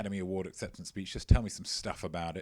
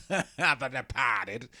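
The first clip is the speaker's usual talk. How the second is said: laughing slowly; 5 dB louder, much slower than usual. Real, not acted. Repeats title, laughing slowly.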